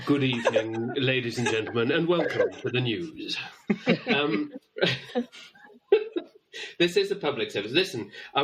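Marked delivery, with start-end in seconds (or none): 0.1-3.4 newsreader. Pretend. Mock newsreader after posh jokes.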